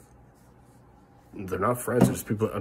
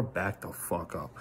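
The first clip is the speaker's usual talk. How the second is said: slow muted warning; 3 semitones lower, 6 dB quieter, slower than usual. Real, not acted. Warning to anonymous flaggers.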